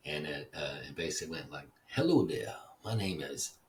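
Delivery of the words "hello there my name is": mock Southern drawl, lightly done, pitched up on the greeting; Pastor Joe Masterson's Southern drawl. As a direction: lightly imitate a Southern preacher's voicemail drawl. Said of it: "he had a Southern drawl".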